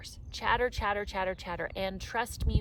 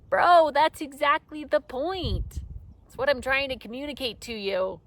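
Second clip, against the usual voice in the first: excited retort; 6 semitones higher, 8 dB louder than usual. Retold or imitated. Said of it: "I was like".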